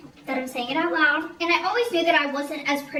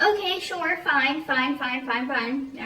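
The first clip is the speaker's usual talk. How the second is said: retold grudging agreement; slower than usual. Giving in to friend's new friendships, retold dismissive agreement. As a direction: brush it off, falling away as it repeats.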